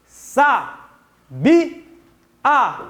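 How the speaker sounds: "Sa, bi, a" as three separate syllables; syllable division. Shown as a demonstration. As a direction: pause after each syllable of "Sa, bi, a". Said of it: "vamos fazer a divisão".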